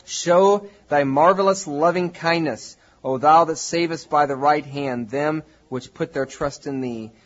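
measured, slow Bible reading from the pulpit; solemn, projected verse reading; scripture reading. Real, not acted. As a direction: declaim the psalm with deliberate phrasing. Reads the psalm aloud.

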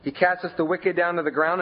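"He" lifted and leaned on; "He" given the emphasis, rest read on; stress on He. Shown as a demonstration. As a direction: hit the word "He" hard. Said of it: "emphasize the word he".

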